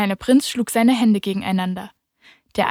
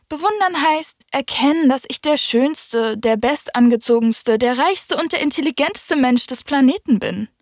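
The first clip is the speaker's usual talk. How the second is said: higher, pompous self-praise; a hint of a preening show-off, higher; lightly voiced vain man boasting, higher; 5 semitones higher than usual.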